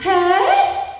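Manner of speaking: a hey missing the bratty edge; not bratty hey. Shown as a demonstration. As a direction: demo of a hey without brattiness. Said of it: "you probably don't have a lot of bratty".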